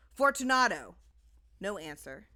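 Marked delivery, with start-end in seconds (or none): 0.1-1.0 louder, higher call into the wall; calling aloud. A narrator's reading. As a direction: call out into the darkness. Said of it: "I called aloud".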